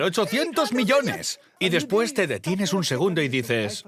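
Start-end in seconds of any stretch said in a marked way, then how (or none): 0.0-1.4 slow, much higher, jubilant; excited shout. Retold or imitated. Wife jumping and shouting about the money, jubilant and high. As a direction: shout it like you're jumping for joy. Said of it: "Empieza a saltar y a gritar".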